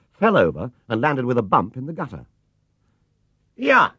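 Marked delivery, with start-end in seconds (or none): 3.6-3.9 worried call, much higher and louder; called anxiously. A narrator's reading. Cabbie calling to the fallen bear, anxious and loud. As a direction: call out in alarm. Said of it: "he called anxiously".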